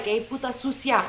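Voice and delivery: softly re-enacted Valley Girl cursing in Spanish; Valley Girl accent. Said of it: "What's the Valley Girl sound like?".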